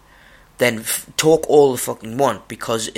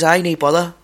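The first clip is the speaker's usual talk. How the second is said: put-on broad Scottish accent; 7 semitones higher, 5 dB louder than usual. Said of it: "The guy says".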